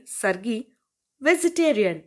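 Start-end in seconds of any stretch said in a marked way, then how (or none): 1.2-2.0 disgusted. A narrator's reading. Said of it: "అసహ్యంగా మొహం పెట్టాడు".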